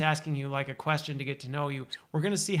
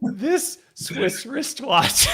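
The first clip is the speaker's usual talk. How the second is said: very slow, higher and a bit louder, each word spaced; slow careful tongue twister; 7 semitones higher, 5 dB louder, much slower than usual. Shown as a demonstration. Host slowly demonstrating a tongue twister, spaced words. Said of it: "I'll see if I can even do it".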